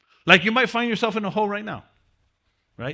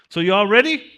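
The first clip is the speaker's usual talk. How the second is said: calling out; 2 semitones higher, 7 dB louder than usual. Real, not acted. Rallying the class to start.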